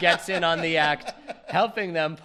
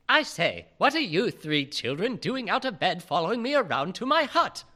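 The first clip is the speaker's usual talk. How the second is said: Hagrid voice. Acted. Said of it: "says Hagrid".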